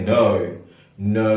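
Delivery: American "no" with an oh glide, noh; American English "no" as noh. Shown as a demonstration. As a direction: say "no" the American way, round oh. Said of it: "Kalau American gimana?".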